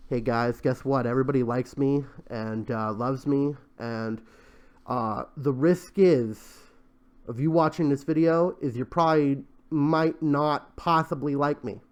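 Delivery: low, subdued parody of a pitch; mock announcement. Vlogger parodying a pitch to viewers, mock announcement.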